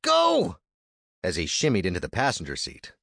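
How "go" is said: high, loud roar. Acted. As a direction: roar it from the back. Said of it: "he roared".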